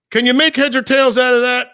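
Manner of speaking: lightly voiced baffled pal; imitating Vinny again. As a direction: ask like a confused friend holding up a blurry photo. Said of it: "and he's gonna say".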